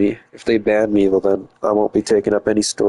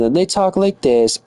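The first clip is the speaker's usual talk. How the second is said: imitated girl talk; 5 semitones higher than usual. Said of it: "I don't know why girls talk like this".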